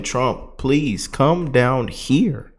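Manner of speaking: drawn-out mock plea, stretched slow; imitating a slow plea to Trump; slow pleading. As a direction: beg slowly like a resident calling for help. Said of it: "residents... are saying".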